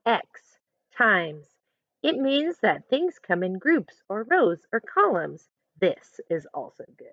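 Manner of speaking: put-on lively picture-book narration for kids; reading a story aloud. A narrator's reading. Teacher reading a picture book to her class, storytelling voice. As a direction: read it as Amanda telling her own story.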